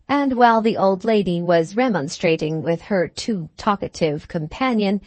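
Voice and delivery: plain reading voice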